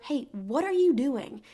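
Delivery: mock yell. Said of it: "He yells at her".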